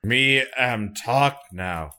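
slow, dragged caveman speech; caveman Klingon. Retold or imitated. Mocking slow Klingon talk.

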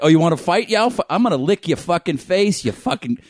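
mildly hammed Boston tough talk; imitated Boston brawler. Hockey player picking a fight, mock Boston bravado. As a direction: threaten in a put-on Boston accent. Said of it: "that's so Boston".

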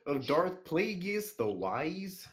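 Kermit the Frog voice. Acted. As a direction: play the frog puppet, gurgling. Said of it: "in a Kermit the Frog voice".

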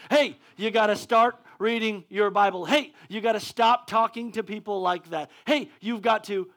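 half-hearted mock rebuke; a touch of a rebuking Father. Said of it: "he is actively rebuking".

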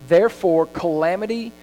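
scripture reading. Acted. Preacher reads Proverbs aloud to the congregation, emphatic scripture reading. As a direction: read each phrase deliberately, with pauses and punched key words.

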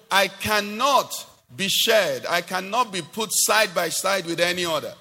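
high, emphatic voice of God, slowing on the refusal; God declaring. Acted. Preacher voicing God refusing any rival, emphatic declaration. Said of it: "He's saying".

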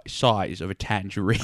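lightly imitated Cockney accent; a hint of a British film-star impression; Michael Caine. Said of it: "Your one accent is Michael Caine".

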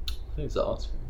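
eating while talking; chewing while talking. Real, not acted. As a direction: talk through a mouthful of ice cream. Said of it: "Sorry for the eating".

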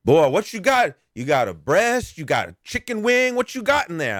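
mock beggar pestering about chicken. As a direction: pitch up and pester. Beggar voiced in retold story.

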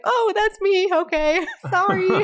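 very high-pitched little "oops, my bad" voice; mock sheepish reaction. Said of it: "And I was like".

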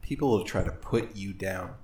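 mock-epic speech rising to a yell; roaring rallying speech. Mock motivational speech over music.

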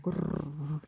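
grrr as a throaty purring growl; a mock purring grrr; cat purr. Shown as a demonstration. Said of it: "like a cat purring".

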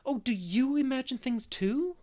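high, loud, delighted question; joyful exclamation. A narrator's reading. Anne delightedly finds Miss Lavender imagines things too, joyful exclamation. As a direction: burst out with joy, pitched well up. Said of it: "exclaimed joyfully".

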